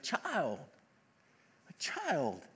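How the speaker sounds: soft, tender address, repeated; kind Abraham. Retold or imitated. Abraham to the rich man, soft and kind. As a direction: gently call to someone you pity. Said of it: "so kind towards the man".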